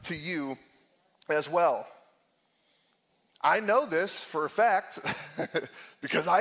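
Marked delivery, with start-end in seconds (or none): 0.0-1.9 lightly voiced tempter promising to remember; mock-reassuring enemy, mostly in his own voice; voicing Satan. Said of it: "He's saying".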